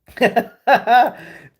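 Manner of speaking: a high, loud burst of laughter; real helpless laugh; loud laughing fit. Real, not acted. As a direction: crack up hard.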